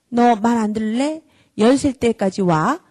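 mock exasperated parent stretching the count; counting threat. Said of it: "애청하거나 수를 세면 안 됩니다".

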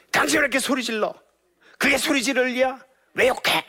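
high, loud accusing shout at husband; angry wife yelling. Retold or imitated. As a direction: yell at him, blaming. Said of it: "이게 아니라 너, 유 메시지". (남편을 탓하며 높고 크게 소리치는 아내)

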